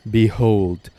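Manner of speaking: showing off. Pretend. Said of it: "behold the magnum opus".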